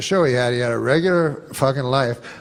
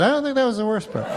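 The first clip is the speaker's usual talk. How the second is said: deadpan retort; 8 semitones higher, 4 dB quieter, much faster than usual. Retold or imitated. Comic retort to buddy's quote.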